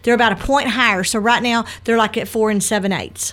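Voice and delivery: talking around a piece of gum; words softened by gum in the mouth; chewing gum. Real, not acted. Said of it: "I've got gum in my mouth".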